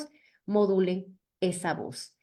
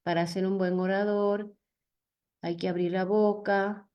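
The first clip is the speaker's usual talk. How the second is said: measured pace. Shown as a demonstration. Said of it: "hay que buscar una velocidad promedio".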